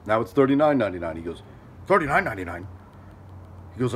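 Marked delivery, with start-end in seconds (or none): 1.9-2.7 imitating a stunned neighbour repeating a price; lightly voiced disbelief, in an altered voice; disbelieving echo.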